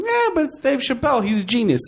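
drawn-out, reluctant concession in English; half-excusing mid-act mumble. Acted. Comedian imagining himself defending Dave Chappelle, slow mock concession. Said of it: "eu ia falar assim".

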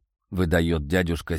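plain reading voice

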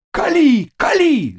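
high shout of "Кали"; cossacks shouting. A narrator's reading. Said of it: "закричали казаки". (высоким криком «Кали!»)

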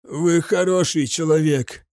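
a wounded soldier's strained croak; hoarse wheeze. A narrator's reading. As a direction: croak it out, barely breathing. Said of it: "прохрипел солдат, едва дыша".

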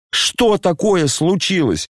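exasperated, pitched high; boiling over. Acted. Коля раздражённо кричит на отца, резко и высоко. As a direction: voice climbing in anger at father. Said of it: "закипел вдруг Коля".

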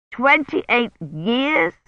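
slow, high amazed echo; drawn-out astonished question. Acted. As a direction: repeat it in disbelief. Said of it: "the amazed tone".

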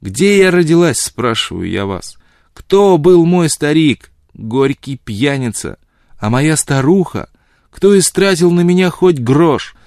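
high, loud, drawn-out tirade; anguished, spiteful wailing; bitter outburst. A narrator's reading. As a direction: hurl the questions out slowly and loudly. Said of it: "крикнула она в порыве злобы".

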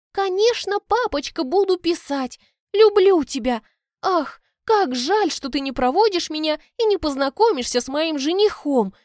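put-on high, breathy, cutesy daddy's girl; squeaky voice. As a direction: squeak it out sweetly, fake tears. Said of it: "писклявым голосом". (писклявый, слезливый голосок)

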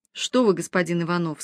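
чуть ниже, тягуче, чужим голосом; слегка протяжно, будто другая женщина; низкий тягучий голос. Acted. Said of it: "чужим, низким и тягучим голосом". (лёгкий намёк на чужой низкий голос)

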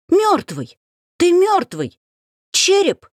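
high panicked scream of a dead man; terrified screaming. Acted. The heroine screams in horror at the dead-looking man. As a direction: scream it as if seeing a skull. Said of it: "Я снова завопила так".

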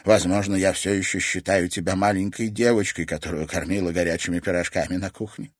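put-on caring old woman; tender grandmother. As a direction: soothe her like a child. Grandmother softly explains.

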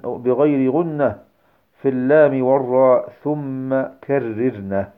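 slow, measured Arabic poem recitation; didactic verse recitation. Acted. Teacher quoting Sheikh al-Jamzuri's Tuhfa, recited as verse. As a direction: recite metrically, drawing out the line endings.

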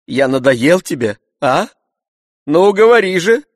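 master's rising outburst; indignant demand. A narrator's reading. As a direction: press him to answer. Master scolding servant.

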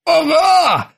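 high triumphant exclamation; gleeful. A narrator's reading. Krueger crows as the plastic blade bends. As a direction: crow with delight. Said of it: "радостно воскликнул Крюгер".

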